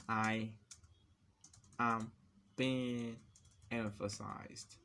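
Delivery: one word at a time, long pauses; halting, word-by-word delivery; typing-pace dictation. Real, not acted. Typing emphasized example text, word-by-word dictation.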